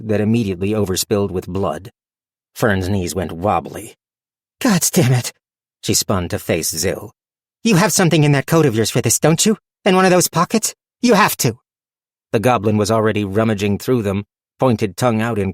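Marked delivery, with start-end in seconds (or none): 4.6-5.3 sharp, high burst of cursing; frustrated curse. Acted. Panic over bleeding wound. 7.6-11.6 fast, rising, higher and higher; pressing, climbing to a near-cry; desperate urging. Acted. Desperate plea to goblin.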